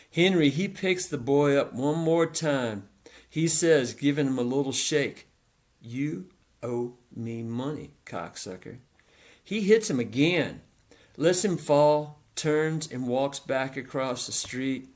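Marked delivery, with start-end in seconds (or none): 5.8-8.8 soft southern menace. A narrator's reading. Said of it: "in a voice so soft, so southern".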